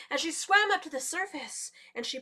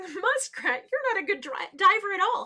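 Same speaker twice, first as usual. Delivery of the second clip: loud, high jeering; mocking laughter; 7 semitones higher, 10 dB louder than usual. A narrator's reading. The divers laugh at muskrat, loudly mocking. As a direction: jeer at her in a big raised voice. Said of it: "started laughing at her".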